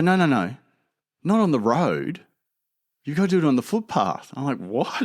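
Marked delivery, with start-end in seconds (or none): 0.0-4.3 high-pitched imitation of a mum correcting; insistent mum. Mum stops son using the road, mock insistence. 4.6-4.9 a small, contained "what"; mock disbelief. Son answers mum's footpath order, understated mock disbelief. Child disbelieves, first take.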